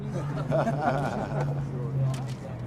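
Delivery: low, soft chuckle; long quiet laugh trailing away; amused laugh. Real, not acted. Veteran laughs after his camera remark, low chuckle.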